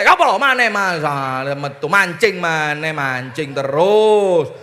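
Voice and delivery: wife scolds her husband loudly over his fishing; nagging wife. Retold or imitated. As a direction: snap at the husband for going fishing. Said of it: "panjenengan ngegas terus".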